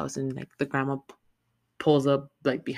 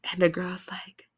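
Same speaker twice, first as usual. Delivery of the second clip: hushed storytelling whisper; 4 semitones higher than usual. Real, not acted. Whispered narration continues.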